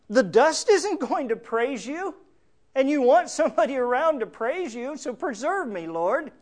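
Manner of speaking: high-pitched imitated plea; David crying out. Preacher voices David bargaining to be preserved, crying out. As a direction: argue David's case to God, high and insistent. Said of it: "he cries out in a very practical sense".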